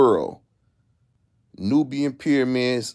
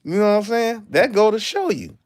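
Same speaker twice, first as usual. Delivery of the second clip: excited; 11 semitones higher, 4 dB louder than usual. Real, not acted. Excited rant peak.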